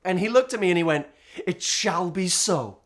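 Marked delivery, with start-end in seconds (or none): 1.5-2.8 put-on It shall be so said slowly and gravely in a light accent; understated accented vow; slow solemn pronouncement. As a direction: declare it like a royal decree. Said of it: "forgive the accent".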